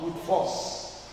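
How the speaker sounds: breathy whispered payoff; hushed punchline. Real, not acted. Preacher delivering the punchline to the church in a whisper. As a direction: drop to a whisper for the point.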